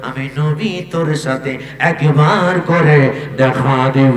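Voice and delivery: sing-song promise with stretched phrase endings; intoned sermon reply. Acted. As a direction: chant it as a solemn answer to a devotee.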